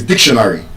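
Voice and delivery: dictionary stressed on the first syllable, DIC; DIC-tionary, the rest falling away; correct stress. Shown as a demonstration. Teacher corrects by the rule, first-syllable stress. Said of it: "the first syllable".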